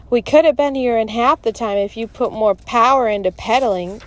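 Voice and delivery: mildly acted complaint; griping, pitch lifted. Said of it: "Eddie griped".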